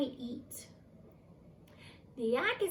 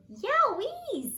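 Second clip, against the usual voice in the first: very high, loud squeal of delight; delighted yowee; 11 semitones higher, 5 dB louder than usual. Acted. Young yak tastes the food and loves it.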